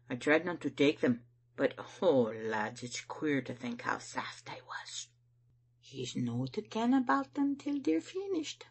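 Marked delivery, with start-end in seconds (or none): 5.8-8.6 higher-pitched, doting confidence; fond motherly lilt. A narrator's reading. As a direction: share a loving little secret. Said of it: "terrible fond like".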